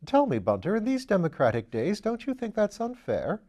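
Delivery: put-on an airy young lord teasing his valet; Lord Peter. Narrator voices Lord Peter.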